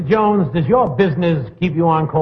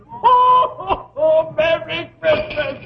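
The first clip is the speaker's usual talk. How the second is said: jolly ho ho ho; 11 semitones higher, much slower than usual. Acted. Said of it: "could I hear the guest say something".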